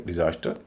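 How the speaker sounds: डिजास्टर as di-ZAS-ter; second-syllable stress. Shown as a demonstration. Teacher repeating the exception, डिजास्टर stressed in the middle. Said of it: "इसमें भी दूसरे पर stress है".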